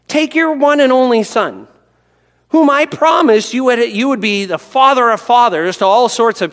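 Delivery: God's command. Acted. God telling Abraham to sacrifice his son, commanding.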